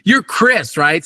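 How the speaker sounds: light imitation of Tom Hanks recognizing him; Tom Hanks greeting. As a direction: star greeting the kid by name. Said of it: "he says".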